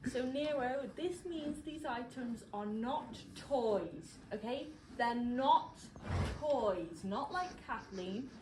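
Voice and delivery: slow, spelled-out warning; mock-stern, over-careful enunciation; patronising. Real, not acted. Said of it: "I know I'm being a bit patronising".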